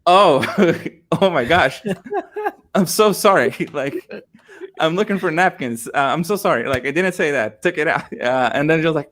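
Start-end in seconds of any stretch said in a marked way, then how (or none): 0.1-8.1 high, flustered, laughing apology; mortified apology. Retold or imitated. Customer apologising to cashier after wrong word, mortified. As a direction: backpedal in embarrassment, pitch up.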